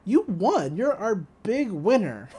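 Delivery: light mock sweepstakes-guy cheer; announcer-ish winner man. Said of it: "he's like".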